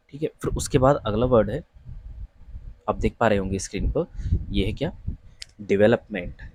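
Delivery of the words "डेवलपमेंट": "डेवलपमेंट" as di-VEL-up-ment; correct pronunciation. Shown as a demonstration. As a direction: clear "ve" in the second syllable of "डेवलपमेंट". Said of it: "इसका सही उच्चारण डेवलपमेंट है".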